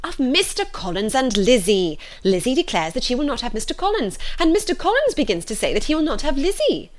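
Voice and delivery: high, emphatic matron's explanation; exasperated mother. A narrator's reading. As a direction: spell it out with rising agitation. Mrs Bennet explains, exasperated.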